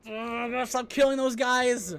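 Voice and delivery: furious high shout; shaking with anger. Real, not acted. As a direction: yell in real frustration. Angry at enemies.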